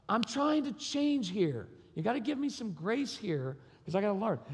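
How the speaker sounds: retold fury. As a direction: protest heatedly, drawing out the first words. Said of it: "And I got furious".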